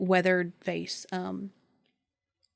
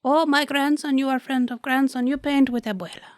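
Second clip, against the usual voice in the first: put-on broken-English old grandma; lightly voiced old grandmother; old abuela voice; 6 semitones higher, 3 dB louder than usual.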